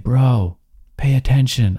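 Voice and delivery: a stranger snapping at a careless guy; stranger yelling. Retold or imitated. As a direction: scold him for not paying attention. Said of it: "she starts to yell at me".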